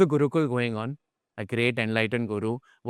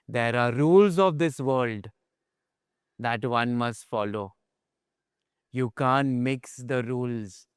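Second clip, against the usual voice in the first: slow, calm and composed; calm, gentle guru; 2 semitones lower, slower than usual. Retold or imitated. Guru calmly consoling the boy, slow and gentle. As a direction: explain patiently, with compassion. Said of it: "very nicely".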